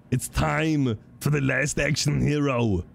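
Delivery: slow, drawn-out sultry line; foreplay voice. Acted. Mock sultry voice for chat. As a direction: drag out climax teasingly. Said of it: "foreplay voice".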